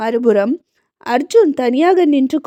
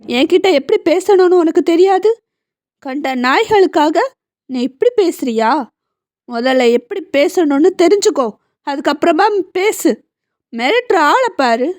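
a touch of angry father, mildly raised; 4 semitones higher than usual. Acted. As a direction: scold your son, understated anger. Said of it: "கோபமாக கூறினார்". (மகனை மிதமான கோபத்துடன் கண்டிக்கும் அப்பா)

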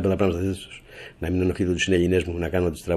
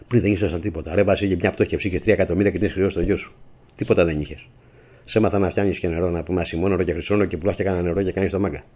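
louder, heated telling-off of a former ally; angry scolding; 2 semitones higher, 3 dB louder than usual. Real, not acted. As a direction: scold him hard, voice rising. Angrily scolds named ex-allies. (θυμωμένο μάλωμα πρώην συνεργάτη)

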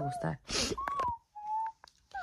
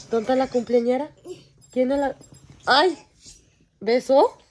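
put-on baby talk; 4 semitones higher, 5 dB louder than usual. Mother cooing at her birthday baby.

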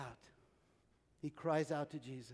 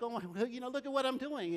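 terrified joy; 5 semitones higher than usual. Retold or imitated. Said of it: "he had just had this terrified".

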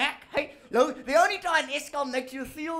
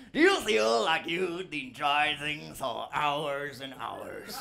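low, slow, dreamy ad voiceover; mock stoned ad; 8 semitones lower, slower than usual. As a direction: drawl it like a stoned commercial.

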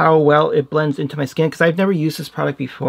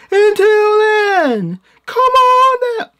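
much higher, louder, slow hammy host; game show host; 6 dB louder, much slower than usual. Acted. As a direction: draw it out like a TV host. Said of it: "I sound like a game show host".

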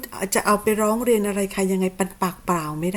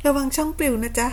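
sweet mock warning with a higher lilt; teasing singsong warning; 4 semitones higher than usual. Real, not acted. Streamer warning her rival his channel gets banned, sugary taunt. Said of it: "เดี๋ยวช่องปลิวนะ".

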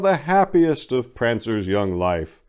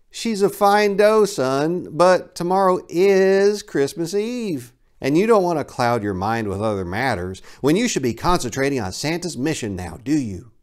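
higher fatherly voice, slowing to advise; gently cautioning father; 4 semitones higher than usual. Acted. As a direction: counsel the son patiently.

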